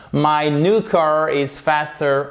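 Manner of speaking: slow, clear model sentence; modelled English sentence. Shown as a demonstration. Teacher reading the example sentence aloud. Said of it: "example sentence modelled in English".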